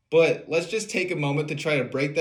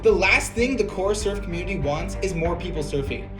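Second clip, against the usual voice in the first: sarcastic reading. Retold or imitated. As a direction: read it like a smug troll. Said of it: "McFadden Junior, thirty-six, says".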